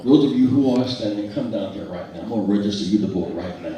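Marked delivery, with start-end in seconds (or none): 0.0-2.2 calling out. Real, not acted. Calling out to standing crowd.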